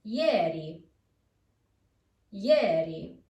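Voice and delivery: I in ieri said as Y; ieri with ye glide. Shown as a demonstration. Teacher modelling ieri for learners with ye glide. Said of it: "As in".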